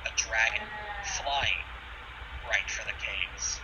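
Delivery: slow, hushed scene setting; game master narration. A narrator's reading. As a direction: paint the vista slowly.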